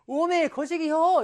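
high, slow, drawn-out Jeolla gushing; mock adoration. Shown as a demonstration. Teacher shows how dialect says I love you, mock adoring. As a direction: stretch it out as hammed-up love. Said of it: "널 죽도록 사랑해".

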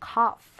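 "cough" ending in a clear F sound. Shown as a demonstration. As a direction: say "cough" with gh pronounced as f. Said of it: "이렇게 읽죠".

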